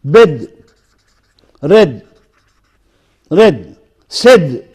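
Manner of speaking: "Bed", "Red", "Said" each with a short open e; isolated example words, same short e in "Bed", "Red", "Said"; short E vowel. Shown as a demonstration. Teacher demonstrating a sound, short e in "Bed", "Red", "Said". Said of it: "The sound E".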